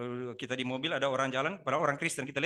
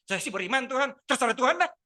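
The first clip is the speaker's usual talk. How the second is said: higher and louder, tossed-off dismissive prayer; mock careless prayer; 10 semitones higher, 9 dB louder than usual. Shown as a demonstration. Pastor mocking a careless believer's prayer, high and dismissive. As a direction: wave God off with a shrug. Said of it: "Tapi bahasanya begitu".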